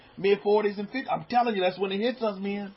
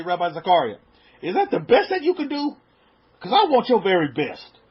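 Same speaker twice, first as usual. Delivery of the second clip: pushy haggling; 7 dB louder than usual. Retold or imitated. Haggling with the mechanic.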